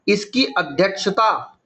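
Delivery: slow, measured repeat; slow dictation. Shown as a demonstration. Teacher repeating an exam question to students, slowly. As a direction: draw the words out for note-takers.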